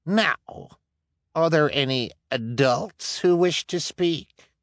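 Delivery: high, pompous speech; smug official. Acted. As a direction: speak with false authority. Luciana addresses the room.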